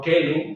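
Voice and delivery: celum with a hard K; hard-C celum, like kelum; classical Latin pronunciation. Shown as a demonstration. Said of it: "como se decía en el latín clásico".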